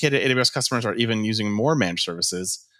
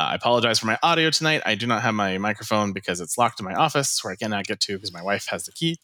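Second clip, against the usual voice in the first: thin, metallic headset mic sound; talking through a cheap headset mic; tinny headset voice. Real, not acted. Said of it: "listen to my tinny voice on this Logitech headset".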